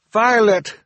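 high, loud cry of alarm. Acted. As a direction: shout the name in sudden fright. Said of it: "Sunny cried".

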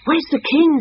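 high, alarmed animal call; crying out in confusion. A narrator's reading. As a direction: call out as a bewildered crowd. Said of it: "they cried".

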